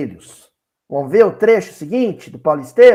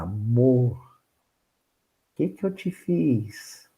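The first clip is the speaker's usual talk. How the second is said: put-on slow, soft Araxá accent; gentle plea with a soft Araxá twang; imitating Juju; 6 semitones lower, 5 dB quieter, much slower than usual. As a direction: Juju softly asks her husband, Araxá accent. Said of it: "vou imitar a Juju".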